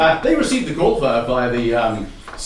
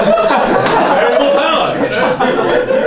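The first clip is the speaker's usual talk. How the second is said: laughing callback; 9 semitones higher, 5 dB louder, much slower than usual. Real, not acted. Callback to the running joke.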